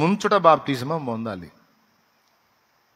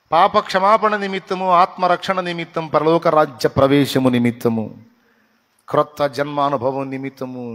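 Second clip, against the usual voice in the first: forceful preaching; 2 semitones higher, 7 dB louder than usual. Acted. Pastor tells the congregation why to be baptised, in a loud preaching voice. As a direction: proclaim each purpose loudly from the pulpit.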